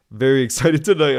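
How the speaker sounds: repeating the chat line with a laugh breaking in; amused echo of the viewer's words. Real, not acted. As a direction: laugh through the middle.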